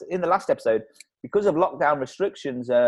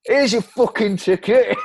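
mock angry; 7 semitones higher, 5 dB louder than usual. Mock ticket inspector exchange.

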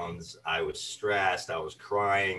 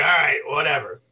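higher, louder brush-off; dismissive; 6 semitones higher, 7 dB louder than usual. Retold or imitated. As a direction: shrug it off, done with it. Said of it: "And I'm like".

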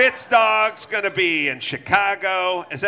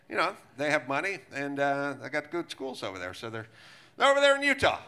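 mock Newsom; 7 semitones lower, 4 dB quieter than usual. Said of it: "And he goes".

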